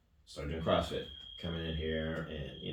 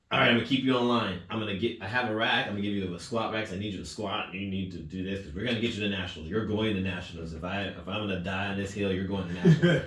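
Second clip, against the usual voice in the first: fired-up coach; 3 semitones higher, 5 dB louder than usual. Retold or imitated. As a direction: push him like your life depends on it. Coach fiercely motivating during pandemic.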